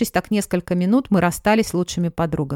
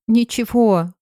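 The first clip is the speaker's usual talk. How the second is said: sobbing; 4 semitones higher, 4 dB louder, slower than usual. Acted. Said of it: "тоже всхлипывая".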